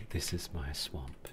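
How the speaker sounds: low, slow ogre imitation; Shrek impression. Streamer quoting Shrek from a video, low mock ogre voice.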